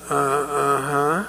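put-on slow, hesitant child's answer; lightly acted whimpering little girl; tearful little girl. Crying girl answers the paramedic, tearful and hesitant. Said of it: "she's crying and evidently in some pain".

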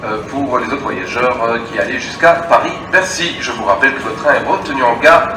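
station loudspeaker announcement; echoing public address voice; over a PA system. Real, not acted.

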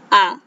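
a long open aa vowel; vowel sound aa. Shown as a demonstration. Teacher demonstrates the zabar sound, long aa. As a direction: say आ as a clear drawn-out aa. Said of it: "जबर की आवाज है".

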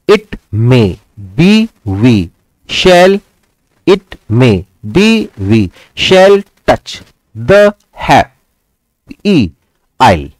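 "happy isle" broken into drawn-out separate beats; teacher scanning the verse slowly, pausing after every word; iamb-by-iamb scansion. Shown as a demonstration. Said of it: "second iambic pentameter line". (हर शब्द अलग, खींचकर, धीमी ताल में)

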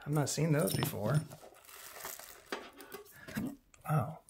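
talking through hiccups. Real, not acted. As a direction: hiccup between the words. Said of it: "we should get rid of these hiccups".

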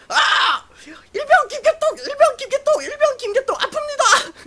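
hammed-up screeching soldier; screaming in pain. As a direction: imitate a high-pitched pained yell. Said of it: "소리 지르길래, "병신 새끼야, 소리가 아니라 관등 성명을".

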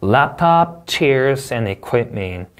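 measured list reading, closing down on "and equipment"; list intonation. Shown as a demonstration. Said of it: "올려있고 덜 끝났으니".

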